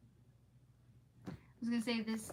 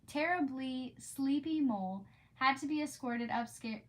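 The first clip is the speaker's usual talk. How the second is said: reading a classic aloud, unhurried; story narration. Acted. Reading aloud to her stream, storybook narration. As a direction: read it like a bedtime storybook.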